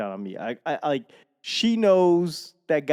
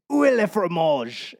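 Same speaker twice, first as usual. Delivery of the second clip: slightly raised, learner's French; amateur French; 4 semitones higher than usual. Acted. Learner answering Duolingo into phone, amateur French. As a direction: try out French for the app. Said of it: "my lack of French accent".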